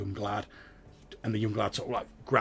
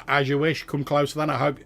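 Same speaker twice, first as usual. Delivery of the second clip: higher, louder sly farmer sizing up strangers; cagey farmer, raised voice; wary farmer; 5 semitones higher, 8 dB louder than usual. Acted. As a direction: draw it out like a suspicious old farmer.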